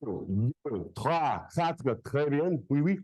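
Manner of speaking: counting in French, capped with oui, oui; jokey French count. Shown as a demonstration.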